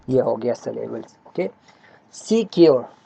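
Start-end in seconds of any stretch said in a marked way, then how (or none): 2.1-2.9 सिक्योर said as two distinct beats, "see-kyor"; teacher's two-part demonstration of सिक्योर; two syllables. Shown as a demonstration. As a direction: mark both syllables of सिक्योर clearly. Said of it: "इसमें दो syllables है".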